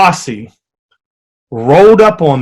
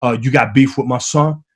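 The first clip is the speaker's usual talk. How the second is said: impression of a rapper; 4 semitones lower, 3 dB quieter than usual. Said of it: "he pulls me over and he says".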